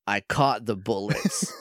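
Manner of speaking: low, slow cop-show quip; deadpan it slowly before the opening titles; CSI Miami one-liner. Retold or imitated. Podcaster retelling the Ranger's entrance, low CSI Miami one-liner. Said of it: "like he's about to start a C S I Miami episode".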